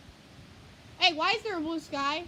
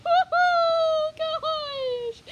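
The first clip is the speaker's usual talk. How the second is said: laughing; 10 semitones higher, 9 dB louder than usual. Real, not acted. Nervous laugh during storm gust.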